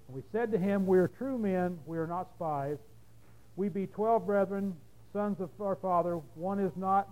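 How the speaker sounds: measured, deliberate Bible reading; scripture reading. A narrator's reading. Preacher reads the Joseph story to the congregation, measured scripture reading. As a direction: read it out evenly, phrase by phrase.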